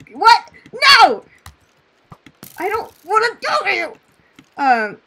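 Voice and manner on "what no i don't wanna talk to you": high, loud playful indignation, fast; mock outrage. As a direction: pretend to be offended. Mock offended by chat question.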